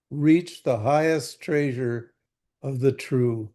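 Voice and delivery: slow, measured reading of scripture; slow verse reading. Acted. Teacher reading sacred verses to students, slow and measured. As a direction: let each line of the verse land slowly.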